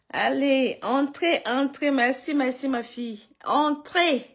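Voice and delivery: calling out loud and high to let them in; loud welcome. Real, not acted. Mother loudly welcoming viewers into her live stream.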